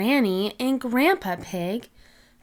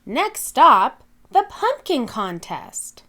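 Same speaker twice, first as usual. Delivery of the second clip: announcer call; 3 semitones higher, 4 dB louder than usual. Acted. Miss Rabbit announcing.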